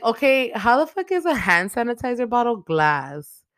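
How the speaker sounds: high, loud outraged disbelief; can't believe what you just watched; shrieking at a silly plot hole; incredulous. Real, not acted. Her own disbelief at the scene.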